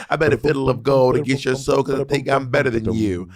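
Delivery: Southern country recitation; country-accented verse in steady rhythm. Acted. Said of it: "You are so country".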